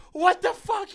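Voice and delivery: high loud disbelieving what the fuck; loud stunned outburst; shocked. Retold or imitated. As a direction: gasp it in disbelief. Jeep returns with man on roof.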